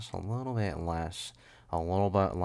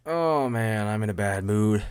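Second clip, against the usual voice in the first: mock moan; 6 dB louder than usual. Puts on a loud moan.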